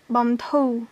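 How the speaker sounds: "bantou" ending on an open vowel, no r; silent final consonant. Shown as a demonstration. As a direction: model "bantou" carefully with the final r left silent. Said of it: "mais elle se prononce pas".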